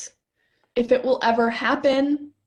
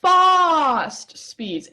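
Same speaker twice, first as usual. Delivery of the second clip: put-on British accent; 5 semitones higher than usual. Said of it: "better with the accent".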